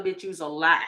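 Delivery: ordinary delivery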